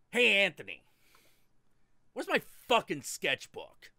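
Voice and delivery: loud, high call across the room. Retold or imitated. Artist calling out to his friend for his sketchbook, loud shout.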